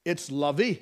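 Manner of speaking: Levi said the Spanish way, leh-VEE; Spanish pronunciation. Shown as a demonstration. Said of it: "In Spanish".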